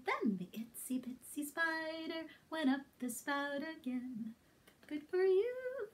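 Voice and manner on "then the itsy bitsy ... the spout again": whispered song. Shown as a demonstration.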